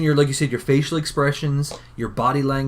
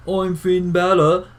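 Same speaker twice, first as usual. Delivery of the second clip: higher, slow mock Irish accent; Finn Balor; 5 semitones higher, 4 dB louder, much slower than usual. Fan mocking a demon wrestler's introduction, drawn-out Irish accent. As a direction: stretch it out in an exaggerated Irish accent. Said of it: "and then he's like".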